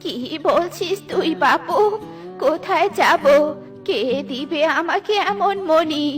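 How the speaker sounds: put-on wavering, weepy old voice; tearful old woman. Old Minu doubting the pigeon's offer, tearfully bewildered. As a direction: question it helplessly, still tearful. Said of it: "Minu বৃদ্ধা কান্না করছে".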